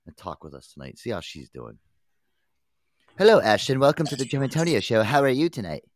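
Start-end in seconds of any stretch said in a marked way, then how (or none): 3.2-5.8 announcer voice. Acted. Host welcoming guest on show.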